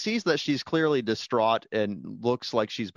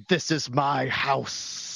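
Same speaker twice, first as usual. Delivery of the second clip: slow, lightly put-on Russian accent; much slower than usual. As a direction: drag it out with a fake Russian accent. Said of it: "with a Russian accent".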